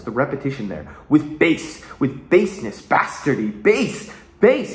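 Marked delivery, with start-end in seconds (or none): 1.1-4.7 punchy, repetitive demo of mounting obsession; almost going crazy. Retold or imitated. Showing Edmund's repetition to viewers, mildly crazed. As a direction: hammer each repeated word, rising at the end. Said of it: "he's almost going crazy about this".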